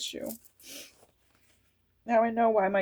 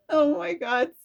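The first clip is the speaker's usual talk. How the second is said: high excited cry of awe; spirit chills; 11 semitones higher, 5 dB louder than usual. Real, not acted. Reader overcome by spirit chills, high and excited. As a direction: gasp out the word in thrilled awe.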